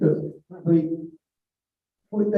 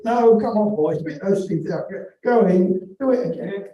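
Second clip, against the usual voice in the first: mock master shouting; 4 semitones higher, 5 dB louder than usual. Master pushes injured boy back in.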